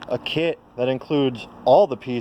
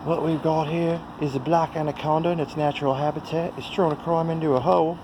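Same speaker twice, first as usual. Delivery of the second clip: nature documentary; 5 semitones higher than usual. Pretend. Nature documentary narration on pipe.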